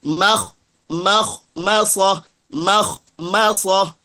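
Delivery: makhmasah drilled slowly with open ma; thin mim. Shown as a demonstration. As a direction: draw out makhmasah, keeping each ma light. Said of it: "jangan ditebalkan mimnya".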